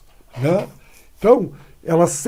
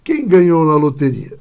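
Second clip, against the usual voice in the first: envious question; 5 dB louder than usual. Shown as a demonstration. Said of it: "com um sentimento".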